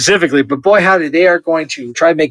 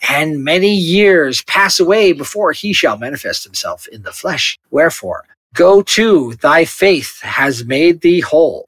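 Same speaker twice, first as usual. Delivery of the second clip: measured, drawn-out scripture recital; scripture reading. Acted. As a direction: read it slowly in solemn phrases.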